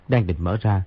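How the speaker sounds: ordinary delivery, nothing marked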